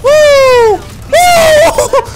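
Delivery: high, loud victory whoop; shrieking woo of triumph; hype yell. Real, not acted. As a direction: let out a big celebratory woo.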